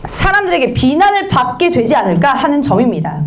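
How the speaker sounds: put-on worried tone; pretended worry. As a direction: feign anxiety about others' blame. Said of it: "걱정하는 척하죠".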